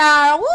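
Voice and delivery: high, loud whoop; cheering woo. Real, not acted. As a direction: whoop to kick off the segment. Cheering the segment opening.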